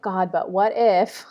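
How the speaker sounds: slow, anxious muttered what-if; a slow, uneasy "God, but what if?"; worried inner voice. Retold or imitated. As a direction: voice the nagging fear, drawn out. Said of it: "in my head, I'm like".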